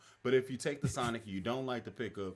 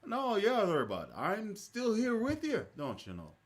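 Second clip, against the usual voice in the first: playful higher Upper Midwest impression; mock Wisconsin accent; 10 semitones higher than usual. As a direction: tease him in his own accent. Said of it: "And I was like".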